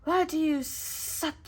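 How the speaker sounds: slow odd puppet voice; merry men's skit, slow puppet snake voice. Pretend. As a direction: play the glove puppet snake slowly. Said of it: "asked the fake Hiss".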